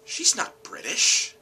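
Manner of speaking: very high, loud, slow protest; incredulous. Retold or imitated. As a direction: object in drawn-out, high-pitched disbelief. Disbelief at the casting choice.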